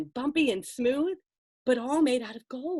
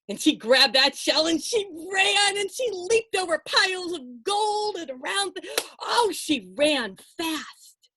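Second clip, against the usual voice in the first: breathless rush; 6 semitones higher than usual. Acted. Princess fleeing closing mountain.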